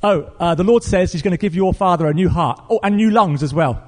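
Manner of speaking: words tumbling out before thinking; sudden blurting. Retold or imitated. Pastor suddenly tells the caller of God's promise, blurted out. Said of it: "he suddenly blurts out".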